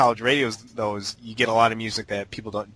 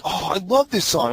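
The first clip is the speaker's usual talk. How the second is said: mock gushing DJ; 6 semitones higher than usual. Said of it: "they're like".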